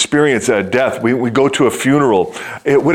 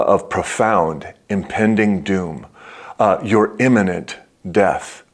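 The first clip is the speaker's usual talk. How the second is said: very serious doctor; 4 semitones lower, 3 dB quieter than usual. Retold or imitated. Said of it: "very seriously".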